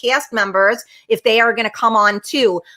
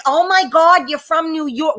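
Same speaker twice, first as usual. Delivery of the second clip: exaggerated imitation of gawking tourists; mock amazement; 5 semitones higher than usual. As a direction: overdo the onlookers' gushing. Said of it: "they didn't say it like that".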